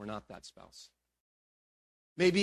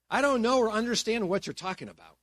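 denial; 5 semitones higher than usual. Acted. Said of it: "but he denied it".

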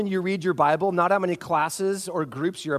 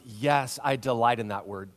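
mock delight; 8 semitones lower, 5 dB quieter than usual. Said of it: "your first thought is".

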